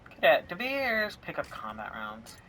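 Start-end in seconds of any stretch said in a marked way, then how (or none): 0.1-1.2 loud, slow drawn-out call. Acted. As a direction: call out his name across the room. Calling out to game character.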